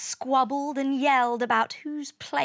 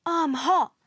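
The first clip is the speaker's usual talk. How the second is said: higher, mildly whiny moan; 5 semitones higher than usual. A narrator's reading. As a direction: moan about the heat. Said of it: "Saturn moaned".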